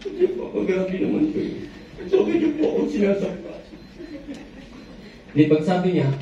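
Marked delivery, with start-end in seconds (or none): 0.1-3.6 breathy start, then a high wounded whine; child's plaint rising high on sinasaktan; whiny child. Acted. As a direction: complain like a hurt child. Hurt child complaining again.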